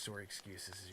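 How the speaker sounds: soft Canadian "sorry" with a rounded o. Real, not acted. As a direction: slip a Canadian "sorry" in, low and quiet. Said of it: "I did a Canadian sorry there".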